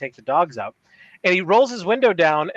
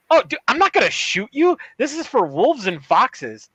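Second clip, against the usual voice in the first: retold reassurance; 5 semitones higher than usual. Retold surprised reassurance to stranger.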